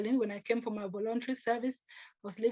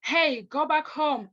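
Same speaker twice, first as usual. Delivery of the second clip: slow, louder, higher mock jeer; hostile taunt; 4 semitones higher, 5 dB louder, slower than usual. Cyclist shouting at her by the roadside, slow hostile jeer. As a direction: drag out a cyclist's sneer as he rides past. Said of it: "he goes like".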